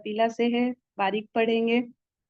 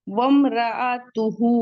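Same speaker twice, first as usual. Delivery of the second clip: वमराअतुहु drawn out slowly; slow recitation; 5 dB louder, much slower than usual. Shown as a demonstration. Teacher models the verse slowly for students. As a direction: recite वमराअतुहु with held vowels. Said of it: "टू count".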